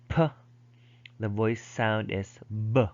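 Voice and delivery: p as a puff, b voiced; demonstrating speech sounds. Shown as a demonstration. Teacher showing students voiced and voiceless bilabials, demonstrating. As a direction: say p then b as isolated sounds. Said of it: "these are voice and voiceless bilabial".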